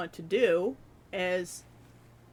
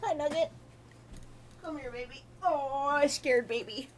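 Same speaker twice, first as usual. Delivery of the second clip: higher, sing-song voice for the cat; 6 semitones higher than usual. Real, not acted. Talking sweetly to her kitten.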